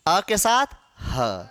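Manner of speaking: "अ के साथ ह" slow and low, breath sound ह apart; sound breakdown. Shown as a demonstration. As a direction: split अह slowly into अ plus a separate ह. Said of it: "साथ में व्यंजन लग गया".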